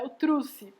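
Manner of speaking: "trouxe" said as "trusse"; children's wrong form. Shown as a demonstration. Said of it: "Por que que elas falam".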